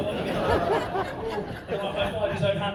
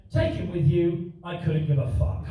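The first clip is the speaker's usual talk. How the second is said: deadpan mum; 2 semitones lower, 4 dB louder, slower than usual. Retold or imitated. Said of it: "And she just went".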